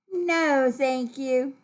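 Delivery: politely voiced no; polite refusal. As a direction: decline with good manners. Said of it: "How does she let you know politely".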